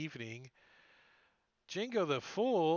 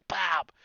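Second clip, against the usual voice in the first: mock hit sound; 3 semitones higher, 8 dB louder than usual. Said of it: "He's like".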